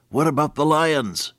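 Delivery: put-on high, worried small boy; little boy. Little boy calling across the dark bedroom, scared. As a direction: call it out like a frightened child. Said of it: "the little boy said".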